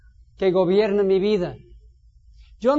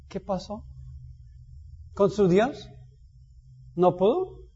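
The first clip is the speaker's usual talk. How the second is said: burla suave; 7 dB quieter than usual. Acted. Elías se burla bajito.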